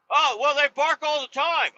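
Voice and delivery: high-pitched mocking imitation; dismissive neighbor. Neighbor waving off the owner's complaint, dismissive. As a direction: voice the neighbor brushing it off. Acted neighbor's reply in quarrel.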